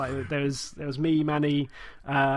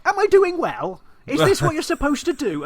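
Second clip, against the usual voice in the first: high, innocent questions; innocent mum voice; 13 semitones higher, 5 dB louder than usual. Retold or imitated. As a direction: naive little voice, asking sweetly. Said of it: "the way my mum occasionally played board games".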